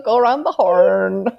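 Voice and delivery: slow put-on sea-captain accent; drawn-out mock captain's accent; Bly's accent. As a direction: imitate the captain's accent, stretching the words. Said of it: "I did like Bly's accent".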